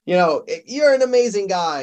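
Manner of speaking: high, gushing admiration; starstruck fan. Pretend. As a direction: gush like meeting a hero. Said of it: "and you say".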